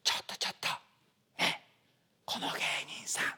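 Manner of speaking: hushed, unvoiced gossip; audience whispering. Audience members gossiping about the performer, whispering. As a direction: whisper it to the person beside you. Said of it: "お客さん同士がね".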